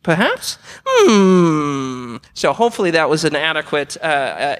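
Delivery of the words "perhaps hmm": a light attempt at an Aussie tech YouTuber, mostly his own voice; Dave Jones impression. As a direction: loosely mimic a blunt Australian electronics vlogger answering a viewer. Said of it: "approximation of Dave Jones".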